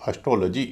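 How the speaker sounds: एस्ट्रोलॉजी with reduced first vowel, stressed tro, light lə: as-TRO-lə-jee; correct pronunciation. Shown as a demonstration. Teacher modelling the right एस्ट्रोलॉजी for students. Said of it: "पूरे शब्द को बोला जाएगा".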